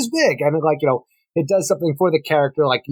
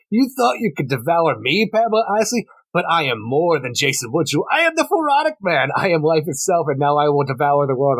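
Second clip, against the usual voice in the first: hammed villain monologue; 2 semitones higher than usual. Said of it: "He's just talking to himself".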